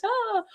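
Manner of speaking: high, soft little "ah"; soft airy sigh. Retold or imitated. Imitating mild Canadians next to Americans, soft high sigh. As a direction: let out a gentle, harmless sigh.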